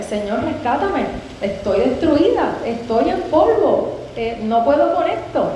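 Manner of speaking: slow, drawn-out plea rising to a peak; pleading prayer. Retold or imitated. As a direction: retell a desperate prayer, stretching each phrase. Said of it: "Y así oraba, decía".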